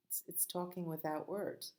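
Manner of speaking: soft unvoiced whisper. Real, not acted. Teacher whispering to the children about signing. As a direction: hush it like a secret.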